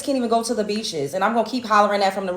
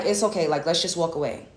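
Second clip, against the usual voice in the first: soft calming; 5 semitones lower, 6 dB quieter than usual. Retold or imitated. Calming her friend down.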